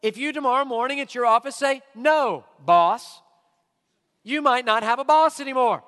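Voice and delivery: preacher pressing the point on the church; loud preaching. Real, not acted. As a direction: hammer each half of the contrast. Loud workplace example.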